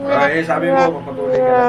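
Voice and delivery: surprised. Real, not acted. Teasing surprise.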